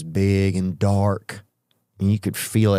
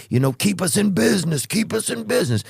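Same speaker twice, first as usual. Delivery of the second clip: higher mock firefighter joke; joking firefighter; 10 semitones higher than usual. Firefighter joking with the guest, higher and playful. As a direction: deliver the joke with a grin.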